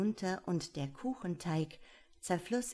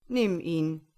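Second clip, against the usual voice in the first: the tsar's verdict; 8 dB louder than usual. Acted. Sagte der Zar.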